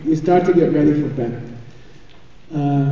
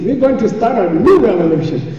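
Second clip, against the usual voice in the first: mildly excited, raised-pitch retelling; excited caller; 4 semitones higher than usual. Retold or imitated. Translating the lady's excited phone call, mildly excited. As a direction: lift the pitch as if relaying thrilling news. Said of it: "Like, she's all excited".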